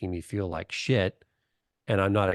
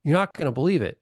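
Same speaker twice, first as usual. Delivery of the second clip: excited aunt; 7 semitones higher, 4 dB louder, faster than usual. Retold or imitated. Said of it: "She goes".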